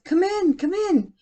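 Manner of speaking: high, loud call of come in; yelled invitation. Acted. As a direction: call her in from across the room. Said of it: "Cecilia yelled".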